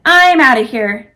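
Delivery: loud panicked exit line; yelling. Acted. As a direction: yell it while running off. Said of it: "Tony yelled".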